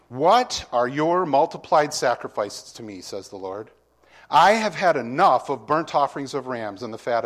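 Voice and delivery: loud, forceful reading of God's rebuke; preacher reading Isaiah with force; proclaiming scripture. Acted. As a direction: thunder the Lord's words at the people.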